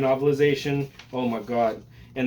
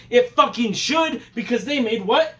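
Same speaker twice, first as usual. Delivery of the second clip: excited; 8 semitones higher, 4 dB louder than usual. Real, not acted. Hyping the famous filmmakers.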